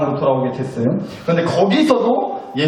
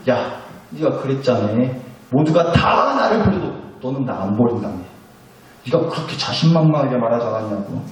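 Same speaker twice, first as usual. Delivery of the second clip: mostly lower-pitched, restrained reproach with pauses; imagined scolding; 3 semitones lower than usual. Pretend. Jesus imagined taking Peter to task, restrained scolding. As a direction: press the culprit with mock-stern questions. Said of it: "막 쏘아붙이시고 막 다그치시는 게".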